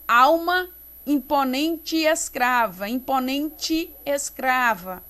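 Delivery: IMPONENTE E ESCRAVA linked, final E sounding like I; run together. Shown as a demonstration. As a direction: join the vowels between IMPONENTE and ESCRAVA. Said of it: "Eu falo tudo junto".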